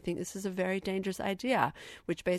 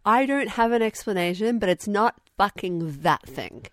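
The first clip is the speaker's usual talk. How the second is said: mock outburst; 2 semitones higher, 7 dB louder than usual.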